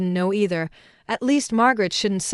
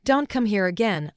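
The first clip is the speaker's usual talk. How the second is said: cold. Acted. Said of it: "he said coldly".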